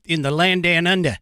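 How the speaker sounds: put-on playful Australian accent; mock Australian. Host teasing his Australian contingent, mock Australian accent. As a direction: put on an Aussie twang. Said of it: "our Australian contingent".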